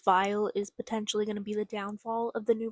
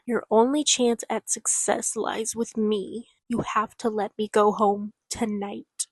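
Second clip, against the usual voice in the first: menacing threat; 4 dB louder than usual. Acted. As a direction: build it into a final warning. Rosabelle's threat continues.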